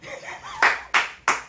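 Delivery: a breathless, high-pitched giggle; high squeaky laugh. Real, not acted. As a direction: burst into a squeaky wheeze of laughter. Laughing at own joke.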